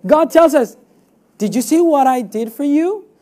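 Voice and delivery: ordinary talk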